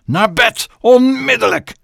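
high, loud command to bed; shouted order. Acted. Mother sends Chloe to bed, loud and high. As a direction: bark her off to bed.

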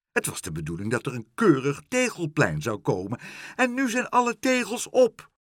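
plaintive protest, rising at the end; wailing. A narrator's reading. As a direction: start aggrieved, end in a high lament. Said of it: "jammerde mevrouw Helderder".

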